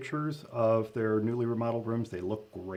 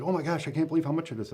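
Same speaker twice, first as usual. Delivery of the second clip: mildly astonished quote, quick and higher; higher, hurried mock dismay; retold astonishment; 5 semitones higher, much faster than usual. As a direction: imitate a caller's surprise in a rush. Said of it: "and they said".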